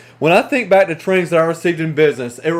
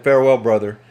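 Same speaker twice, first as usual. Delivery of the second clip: croaking; 5 semitones lower than usual. Acted. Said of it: "he croaked and he said".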